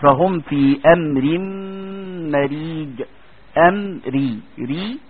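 في امر مريج drawn out slowly with a thin ر; slow recitation demo of a light ر; light Raa. Shown as a demonstration. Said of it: "تقول ايه؟".

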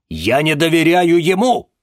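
high, loud clipped retort; curt cut-off. Acted. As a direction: cut her off hard. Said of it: "отрезал Владимир Семёнович".

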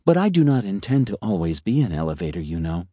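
philosophizing elevator. Acted. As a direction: savour each aphorism like a smug little philosopher. Elevator confiding.

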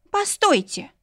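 a flustered maid calling out to stop them; Jenny, flustered. A narrator's reading. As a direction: maid crying out in alarm. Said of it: "всполошилась Дженни".

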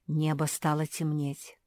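usual speaking voice

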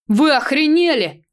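loud high outraged yell. A narrator's reading. Thief on the ground yells at his attackers. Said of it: "заорал мужик".

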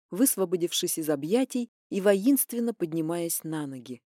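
ordinary talk

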